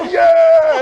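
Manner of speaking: high, loud hype yell; drunken cheer. Retold or imitated. The speaker cheering the plan with drunk friends, a loud high yell. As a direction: shout it to rally everyone. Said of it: "And you go".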